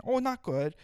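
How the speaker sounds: hammed-up accented doctor saying oh, not good; mock Asian accent. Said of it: "it's Asian".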